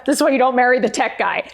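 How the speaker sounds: laughing. Real, not acted. Laughs while telling it.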